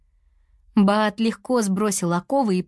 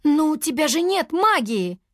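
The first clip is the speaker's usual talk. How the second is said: protesting; 9 semitones higher than usual. A narrator's reading. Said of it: "запротестовала Туа".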